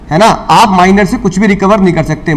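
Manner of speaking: ordinary delivery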